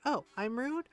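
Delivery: mock affront. Daughter answering doctor who called her rude, affronted.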